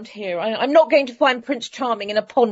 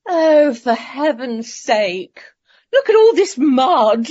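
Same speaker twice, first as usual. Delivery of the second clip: exasperated; 4 dB louder, slower than usual. Acted. Princess complains about muddy walk.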